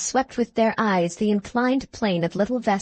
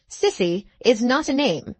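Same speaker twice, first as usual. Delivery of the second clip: stern schoolmaster; 3 semitones higher than usual. Acted. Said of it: "said Mister Gradgrind".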